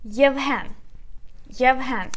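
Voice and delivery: Yevhen with stress on the final e, yev-HEN; stress on second syllable. Shown as a demonstration. Teacher reading back the transcription, Yevhen stressed on the last syllable. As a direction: push the "hen" of Yevhen and let it fall. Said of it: "we put a stress on e".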